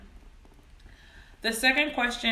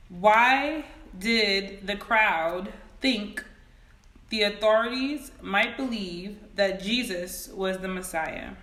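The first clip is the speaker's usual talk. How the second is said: x0.5 slow, spaced-out dictation; measured dictation pace; slow careful read. Shown as a demonstration. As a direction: read it slowly so they can type it. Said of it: "read them as slow as possible".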